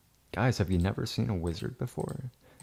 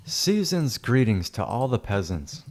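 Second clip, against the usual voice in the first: slow, louder, lordly greeting to the peasants; mock grand greeting; 3 semitones higher, 4 dB louder than usual. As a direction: hand down the season's greetings like a lord.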